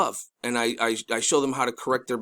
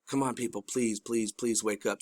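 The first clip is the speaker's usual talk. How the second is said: quiet pleading; 3 semitones lower, 7 dB quieter than usual. Real, not acted. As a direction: beg the listeners softly, drawing out each please. Pleading with viewers to see.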